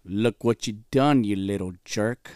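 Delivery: slow, lightly put-on taunt; lightly acted movie villain. Listener quoting Home Alone after the story, slow taunt. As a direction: drag out a mock movie-line scolding. Quotes a film line as a joke.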